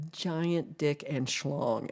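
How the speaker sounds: slow, deliberate pretend address; mock announcement. Imagined caller gives an absurd street corner, slow mock announcement. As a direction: stretch out the silly street names.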